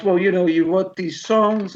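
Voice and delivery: lightly put-on German accent, slowed down. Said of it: "that's my German accent".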